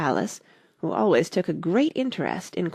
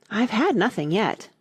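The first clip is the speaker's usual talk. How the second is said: offended; 4 semitones higher than usual. Acted. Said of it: "in an offended tone".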